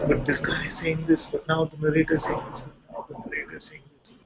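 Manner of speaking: quick, fading, rattled-off chatter; mind chatter. Retold or imitated. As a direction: rattle it off, then trail into a whisper. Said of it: "this temptation to say".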